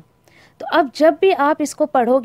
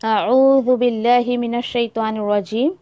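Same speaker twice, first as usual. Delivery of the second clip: qari recitation; 2 semitones lower than usual. Retold or imitated. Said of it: "जब भी कारी तिलावत करते हैं तो".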